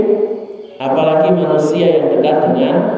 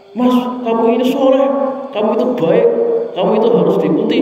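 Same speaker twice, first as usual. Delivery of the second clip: higher, fast, scolding delivery of kind words; mock snapping at a friend, fast and high; 6 semitones higher, faster than usual. Shown as a demonstration. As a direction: bark the praise at him quickly. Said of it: "tapi nadanya bentak-bentak".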